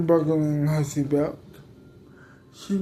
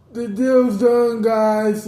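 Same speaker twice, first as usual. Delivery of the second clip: yelling; 3 semitones higher, 5 dB louder, slower than usual. Acted. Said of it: "yells out".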